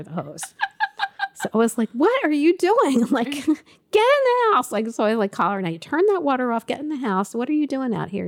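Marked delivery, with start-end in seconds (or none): 1.9-3.0 raised, slowed mock scolding; mother yelling at her child; retold yell. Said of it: "getting yelled at". 3.3-4.7 much higher, sharper command; mother shouting her child indoors; retold yell. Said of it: "getting yelled at". 5.6-8.3 a retold, mildly raised telling-off; mother scolding her child in the yard. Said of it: "getting yelled at".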